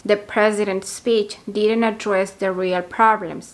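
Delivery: slow, careful model sentence; slow example sentence. Shown as a demonstration. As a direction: read it slowly for learners. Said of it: "se puede decir algo así como". (frase de ejemplo lenta)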